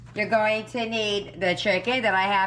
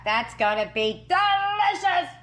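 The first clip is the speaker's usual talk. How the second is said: excited; 10 semitones higher than usual. Real, not acted. Admiring the finished pizza.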